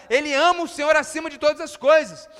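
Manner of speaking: ordinary delivery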